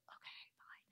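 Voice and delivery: very soft, low grumbled reply; grudging agreement. Retold or imitated. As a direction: give in under your breath, reluctantly. Retells grudgingly giving in to brother.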